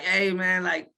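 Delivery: acted-out plea for help; urgent plea. Retold plea to a bystander.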